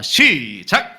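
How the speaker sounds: loud, drawn-out call to begin; stretched-out leader's cue. Real, not acted. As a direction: cue the congregation with a long, loud word. Calls congregation to read together.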